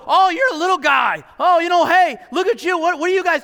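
loud, high, jeering giant's taunt; bully the little guys from above; Goliath's booming scorn at the Israelites; mocking taunt. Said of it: "he's making fun of them, taunting them".

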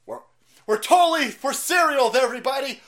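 high, loud dopey insistence; mocking caricature. Host mocking staged marchers insisting they're serious, hammed-up. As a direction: overplay a fake earnest announcement. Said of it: "And like".

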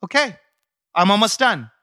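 put-on, mildly impatient mom; impression of his mom. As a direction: call out as a harried mom. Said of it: "You be your mom".

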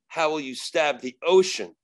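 firm rhetorical challenge to an opponent; retold challenge. Exorcist answers the demon's threat, firm challenge. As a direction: put the question as a taunt. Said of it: "And I go".

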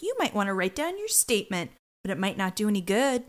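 a hint of a Southern detective; Southern accent. A hint of Southern as Munch taunting Tucker. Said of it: "Sorry, now I'm Southern".

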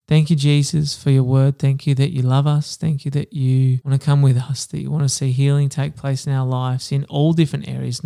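earnest, steady spoken prayer. Real, not acted. Host praying for listeners at the end of the reading, earnest prayer. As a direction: pray sincerely for the listeners.

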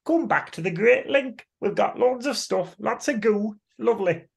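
high, sing-song luring voice; alluring alien call. Retold or imitated. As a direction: lure him home sweetly. Voice of Great Link calling.

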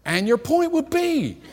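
laughing through the quote. Retold or imitated. Retelling his clueless reply.

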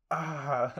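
half-hearted imitation scream; imitated scream. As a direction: mimic a comic pained cry. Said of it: "he just starts screaming".

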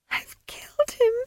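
high, shocked whisper; breathless horrified whisper. Acted. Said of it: "she whispered".

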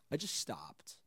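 whispered flatly. Retold or imitated. DJ recalling he stopped playing, whispered. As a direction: drop to a whisper.

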